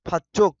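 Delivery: फच्चुक with the च pressed hard; pressed consonant. Shown as a demonstration. Teacher showing students a pressed sound, firm. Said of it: "मैं दबा के बोलता हूँ".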